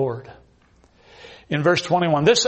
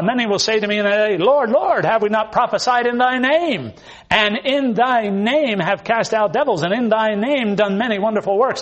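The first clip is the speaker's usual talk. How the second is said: raised, loud mock plea of "Lord, Lord"; pleading false believers; 6 semitones higher, 4 dB louder than usual. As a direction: ham up the desperate religious crowd begging.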